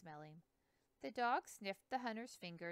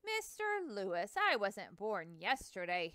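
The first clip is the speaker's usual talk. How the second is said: exclaiming; 7 dB louder than usual. Acted. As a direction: cry out that he's no fool. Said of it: "Hanson exclaimed".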